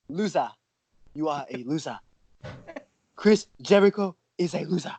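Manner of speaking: attempted African accent, words set apart. Shown as a demonstration. Showing off an African accent while calling Chris Jericho a loser, African-accented taunt. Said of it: "I can say it in African".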